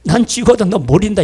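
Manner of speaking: lightly acted Gyeongsang accent; hint of a stubborn Gyeongsang speaker; Gyeongsang dialect. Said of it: "경상도 말로".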